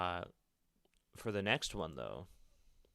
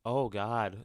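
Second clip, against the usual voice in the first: horrified gasp; 3 semitones higher, 6 dB louder than usual. Acted. Horrified reaction to the note.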